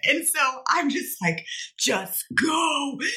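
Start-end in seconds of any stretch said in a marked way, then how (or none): 1.8-3.0 demonic devil voice, deep from within. Retelling what they said in that moment, in a devil voice. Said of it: "like the devil voice that comes out of you".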